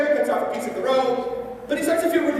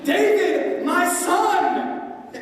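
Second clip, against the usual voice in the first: higher, mildly raised cry; shouting out; 5 semitones higher, much slower than usual. Retold or imitated. Saul, overcome with guilt, crying out to David, mildly raised. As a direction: call out to him, moved. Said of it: "he shouts out".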